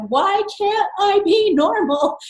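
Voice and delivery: high, slow, anguished wail; imitating a teenager's tearful cry, pitched high. Teenage girl sobbing on her bed, crying out in anguish. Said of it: "just crying and going".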